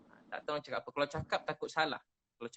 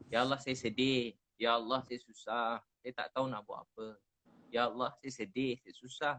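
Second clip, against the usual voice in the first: mournful prayer; 3 semitones lower than usual. Retold or imitated. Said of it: "Dalam perkataan Melayunya".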